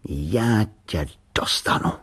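slow menacing whisper; boy swearing revenge on the can, whispered; dangerous voice. Acted. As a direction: breathe the threat slowly to the can. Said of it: "řekl nebezpečným hlasem".

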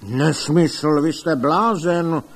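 loud, scornful dismissal; angry bluster. A narrator's reading. Rival doctor scoffing at the doctor, loud angry bluster. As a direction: roar him down as a madman. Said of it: "hučel pan doktor Link".

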